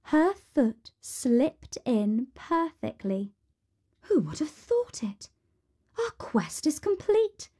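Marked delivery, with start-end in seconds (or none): 4.0-7.5 high-pitched, astonished announcement; royal servant declaring. A narrator's reading. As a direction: declare the search over in a raised pitch. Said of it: "declared the royal servant".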